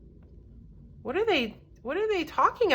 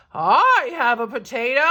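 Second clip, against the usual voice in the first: a touch of a deep voice, called out louder; a villager calling from the back, lightly deep and louder; 5 dB louder than usual. Acted. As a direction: call from the back of the crowd. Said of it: "A deep voice in the back of the crowd called out".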